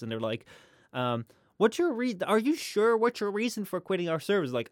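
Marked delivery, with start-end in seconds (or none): 1.6-4.5 lightly voiced agent, pitched up; higher-pitched mock service rep; mock customer service agent. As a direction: put on a higher, querying agent voice. Acts out chat agent questioning customer.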